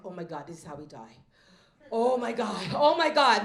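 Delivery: hammed-up terror that swells; mock panic. Mom hearing an intruder is home, mock panic rising.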